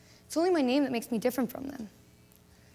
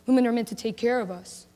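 mightier than thou; 3 dB louder than usual. Retold or imitated. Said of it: "in that mightier than thou voice".

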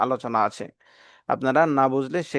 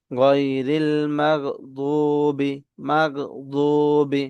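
very slow, measured recitation with long vowels; Quran recitation; much slower than usual. Shown as a demonstration. Teacher reciting the whole verse for learners to follow, slow and drawn out. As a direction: recite slowly, holding the last syllable.

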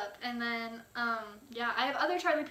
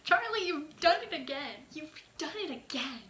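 higher, louder gushing praise; real fan excitement; 3 semitones higher, 4 dB louder than usual. Real, not acted. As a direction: swoon over the song. Gushing over the song.

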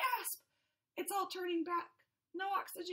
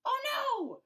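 higher louder cry of dismay; 9 semitones higher, 4 dB louder than usual. Acted. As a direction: cry out in new despair. Grill too fine.

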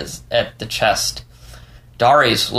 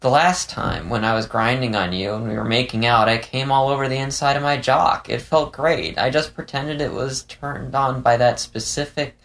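higher-pitched fox character voice; lightly higher dialogue voice; Leo, candid confiding; 4 semitones higher than usual. Acted.

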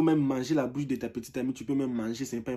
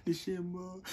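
mock sobbing; 5 semitones higher, 7 dB quieter than usual. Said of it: "ils pleurent".

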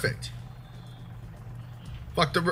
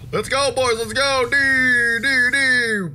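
high, excited rallying cry; gleeful high-pitched whooping; hyped cheer; 8 semitones higher, 4 dB louder, slower than usual. Real, not acted. Cheering on the game crew.

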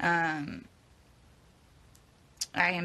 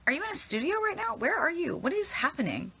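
surprised; 10 semitones higher than usual. Real, not acted. Confused by fan's video setting.

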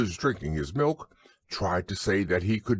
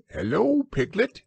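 much higher, squeaky little Roo; squeak; 13 semitones higher than usual. Acted. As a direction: squeak it out like an excited baby kangaroo. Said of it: "he squeaked".

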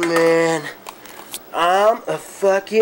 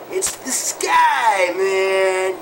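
stoned revelation; much slower than usual. Acted. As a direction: proclaim it like a cosmic discovery.

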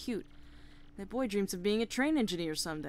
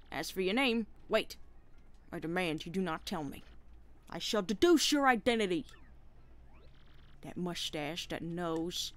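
detective penguin voice; 3 semitones higher, 3 dB louder than usual. Acted.

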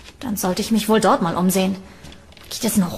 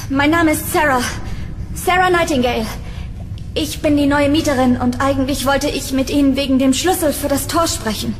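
nervous introduction; 3 semitones higher than usual. Acted.

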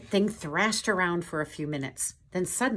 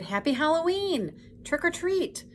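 high, eager doorstep cry; Pooh calling out; 11 semitones higher than usual. A narrator's reading. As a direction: call out high to whoever is inside. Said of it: "knocked on the door and cried".

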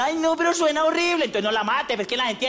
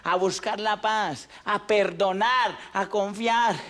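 sincere; 2 semitones lower, slower than usual. Acted. Closing message, slow.

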